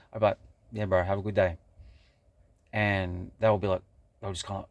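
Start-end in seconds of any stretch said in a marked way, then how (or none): 0.7-1.6 pointed, dry "have a good day"; knowing goodbye. Shown as a demonstration. To a stranger stuck in negativity, a pointed, knowing goodbye. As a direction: say it so they know why. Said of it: "I'll say it in a way where".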